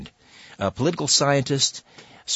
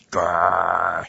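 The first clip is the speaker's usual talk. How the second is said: imitated growl; 4 semitones lower than usual. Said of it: "While I'm backing away slowly".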